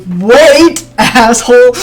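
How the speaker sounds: loud, high shout of wait, asshole; angry yell. Acted. Simon shouting after the player to stop. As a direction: bark it after them to stop.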